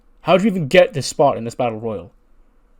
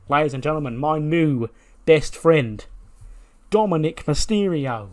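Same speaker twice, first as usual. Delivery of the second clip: drawn-out, rising announcer build; mock show-host introduction; 3 semitones higher than usual. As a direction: stretch out the guest's name like a host. Talk show host introduces guest.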